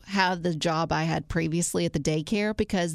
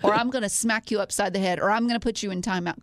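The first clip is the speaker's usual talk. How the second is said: mock daycare teacher; 2 semitones higher than usual. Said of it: "what I had to say was".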